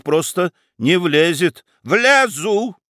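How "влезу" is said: blurted retort. Acted. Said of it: "не выдержала баронесса".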